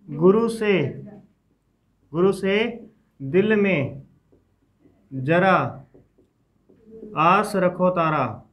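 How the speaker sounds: slow recital, pausing after each chunk; mnemonic read-out. Shown as a demonstration. Teacher showing students the old memory trick, slow chunked recital. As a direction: recite a memory phrase piece by piece. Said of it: "पहले इस प्रकार से हम इसको reading कर लेते थे".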